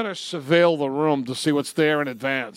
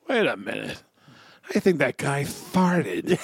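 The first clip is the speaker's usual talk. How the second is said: mock suspicious realization. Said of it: "You go".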